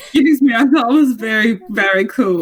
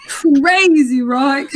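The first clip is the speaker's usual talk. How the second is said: mock amazed; 3 semitones higher, much slower than usual. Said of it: "I'm like".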